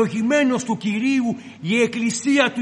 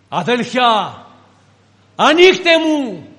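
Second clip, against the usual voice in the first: calling through the door; 6 dB louder, slower than usual. Acted. Peter knocking outside the door.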